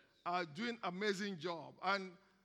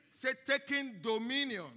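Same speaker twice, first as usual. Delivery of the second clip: louder prompt; 3 semitones higher than usual. Shown as a demonstration. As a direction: push it out louder, rousing. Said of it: "Everybody say taking dominion".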